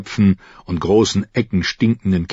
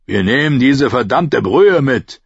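gruff yelling; 5 semitones higher, 4 dB louder than usual. Acted. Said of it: "brüllte er".

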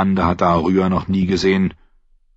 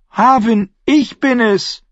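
much higher, loud tearful cry; 5 dB louder than usual. A narrator's reading. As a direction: sob his name out. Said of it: "weinte sie wie ein Kleinkind".

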